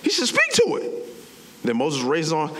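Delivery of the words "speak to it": squeaky-high exasperated insistence; high-pitched incredulous correction; emphatic. Retold or imitated. Exasperated emphasis on God's instruction.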